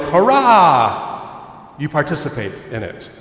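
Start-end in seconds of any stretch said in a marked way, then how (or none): 0.0-1.7 bright cheering shout; cheering hurrah. Shown as a demonstration. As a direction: cheer like a crowd for the hero. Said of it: "you can go like".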